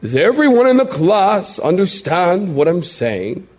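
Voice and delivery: lightly put-on schoolteacher question, lifting at the end; a hint of a teacher addressing the room. Teacher repeats the question to the class, mild teacher voice. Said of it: "That's my teacher voice".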